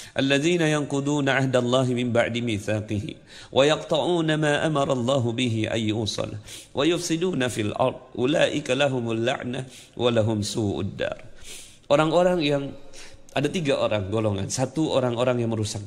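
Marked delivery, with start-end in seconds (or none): 0.1-11.3 measured recitation of Arabic scripture; Quran recitation. Acted. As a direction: recite the verse formally, syllable by syllable. (melafalkan ayat Al-Qur'an dengan khidmat)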